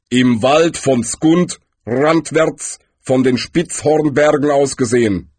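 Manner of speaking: lightly voiced figure of Death, deliberate; measured, weighty answer as Death; Death, informative. A narrator's reading. Death tells Galder where Rincewind is, deliberate.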